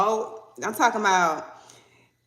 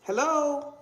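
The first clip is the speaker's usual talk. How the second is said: lightly voiced spirit, pitched higher; insistent spirit; 4 semitones higher than usual. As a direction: call out to get their attention. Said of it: "This person's spirit is like".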